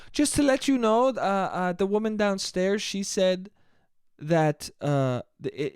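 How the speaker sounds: lightly imitated, vague European accent; hint at a European accent you can't quite place; a loose, unconvincing European accent; unplaceable European accent. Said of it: "she had this accent".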